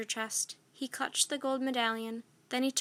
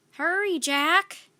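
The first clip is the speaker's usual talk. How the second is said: slow, higher call from afar; girl calling from the treehouse; cried; 6 semitones higher, 7 dB louder, slower than usual. A narrator's reading. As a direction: call down the ladder to her brother. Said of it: "cried Annie".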